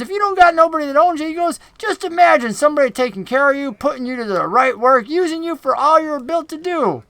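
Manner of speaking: high, quick wheedling goblin pitch; goblin boss voice. Acted. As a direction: sell the deal like a slick goblin boss. Goblin Finch's sales pitch.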